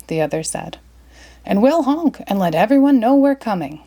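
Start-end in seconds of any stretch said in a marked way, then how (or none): 1.4-3.8 higher, eager geese voice. Acted. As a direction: chatter it out as geese. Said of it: "said the geese".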